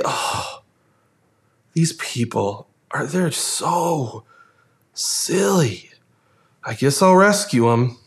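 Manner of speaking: grudging, with pauses between phrases; weary reluctance. Acted. Preacher imagines Jesus grudgingly rescuing people, weary reluctance.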